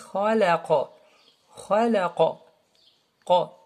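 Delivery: heavy "Khalaqa" with a bounced final qaf; qalqala demonstration. Shown as a demonstration. Teacher shows vibration, bouncing qaf in "Khalaqa". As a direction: round "Qa" and release it with a small echo. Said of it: "on fait une sorte de vibration".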